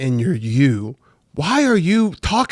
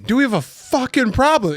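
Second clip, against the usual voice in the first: aggressive version; 7 semitones higher than usual. Shown as a demonstration. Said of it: "You said fucking".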